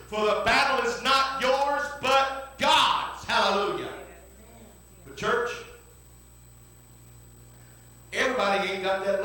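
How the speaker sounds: fervent, building sermon delivery; full-force preaching. Acted. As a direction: preach it out to the church. Preaching to the congregation.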